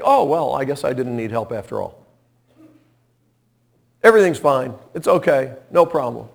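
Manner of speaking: breezy, dismissive self-talk; careless shrug-off. Retold or imitated. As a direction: shrug off the need for help. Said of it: "and I think".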